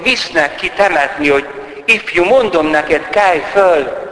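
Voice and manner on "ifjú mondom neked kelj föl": higher and louder command; commanding call. Retold or imitated. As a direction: raise the young man with authority. Jesus commanding the dead youth. (emelt, parancsoló felszólítás)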